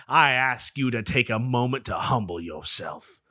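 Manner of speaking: sermon from the pulpit, swelling; rising preacher cadence. Retold or imitated. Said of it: "I might do, like, a preacher voice next".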